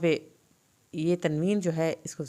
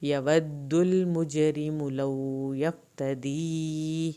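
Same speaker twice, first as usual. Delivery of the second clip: slow recitation; much slower than usual. Shown as a demonstration. Teacher recites verses to students, slow chant. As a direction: recite slowly, stretching the vowels. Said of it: "میم کی پیش کو لمبا نہیں کرنا".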